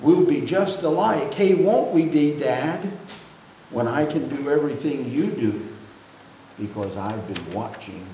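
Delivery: rhythmic country lyric read half-sung; sing-song lyric reading. Shown as a demonstration. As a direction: recite the song like a gentle sing-song poem. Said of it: "if I get a little sing-song with it".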